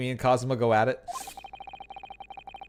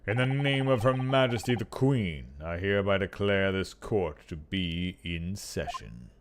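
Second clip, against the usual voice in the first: slow, solemn opening of court; a touch of pompous lord judge; formal judge; 2 semitones lower than usual. Acted. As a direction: declare the session open with ceremony. Judge opens the session.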